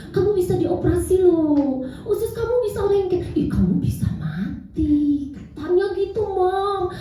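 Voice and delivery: put-on a small boy pouring out what his friends told him; scared child. Young son telling mother his fears, mildly frightened child voice. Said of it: "terus dia bilang".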